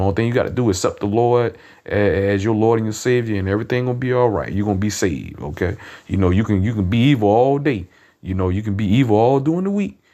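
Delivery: lightly mock their casual faith; sarcastic street preacher mimicking lax believers. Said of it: "I'm being sarcastic".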